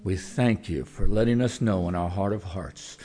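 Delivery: earnest closing prayer to God. Acted. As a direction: pray over the congregation.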